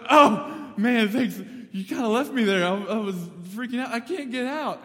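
high, loud, frantic retelling; acted freak-out. Joe confronts the old man at the freezer window, mock frantic.

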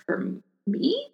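high, startled squeak of a question; surprised. Retold or imitated. Clerk surprised someone asked for her, high startled question. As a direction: caught off guard, pitch jumps way up. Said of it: "And I was like".

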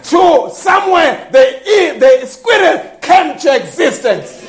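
emphatic sermon with stretched key words; full-force preaching. Acted. Preacher telling the church of squirrels spoken into being, emphatic preaching. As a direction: proclaim it to the congregation.

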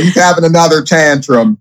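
lightly voiced deadpan aside; a hint of a bored housemate muttering; Boston impression. Guest imitating Boston commenting on Chance's tantrum, mild deadpan. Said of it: "that's my Boston".

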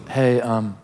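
a tender divine aside; quietly kind Holy Spirit voice; gentle Holy Spirit. Acted. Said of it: "the Holy Spirit just very gently goes".

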